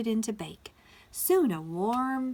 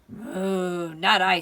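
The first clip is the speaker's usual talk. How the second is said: long moo, then loud refusal; moo, then refuse firmly; mooing cow; 8 dB louder, much slower than usual. A narrator's reading. Cow refusing the hen, mooing loudly. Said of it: "said the cow".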